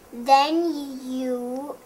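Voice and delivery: slow royal declaration; queen voice. Acted. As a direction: announce it grandly.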